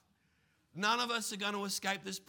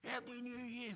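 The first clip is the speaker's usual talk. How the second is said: mock cheery greeting; 6 semitones higher, 5 dB quieter than usual. Preacher imitating the congregation at New Year, mock cheery. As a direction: lightly mimic festive cheer. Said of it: "there was some of you going".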